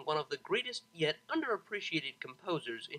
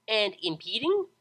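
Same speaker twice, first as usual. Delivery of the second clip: cheery pegasus; 6 semitones higher, 7 dB louder than usual. A narrator's reading. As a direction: drag out the question happily. Pegasus keeps pestering.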